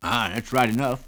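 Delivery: put-on wheezy old prospector voice; wheezy old man. A narrator's reading. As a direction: rasp it out like a wheezy old miner. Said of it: "in a wheezy voice".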